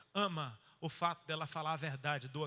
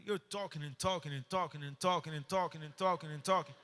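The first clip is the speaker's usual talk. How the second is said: repetitive, rolling English imitation; American prophet. Prophet telling the wife she talks nonstop, imitated in rolling English. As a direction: chant it like the prophet going on and on. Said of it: "Ele falando em inglês".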